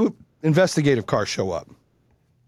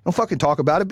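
higher-pitched, retold angry dare; pissed off; 4 semitones higher than usual. Parent facing down the other dad, pissed off. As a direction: act out squaring up to him. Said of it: "Be like, I was pissed".

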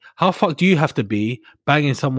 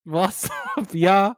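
mock Kosovan accent; 5 semitones higher, slower than usual. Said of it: "It's a Kosovan accent".

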